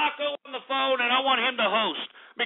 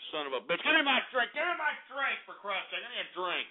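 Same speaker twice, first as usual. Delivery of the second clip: softer irritated demand off to the side; grumbling aside; 6 dB quieter than usual. Real, not acted. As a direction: grumble for your drink under the rant. Grumbling aside demanding his drink.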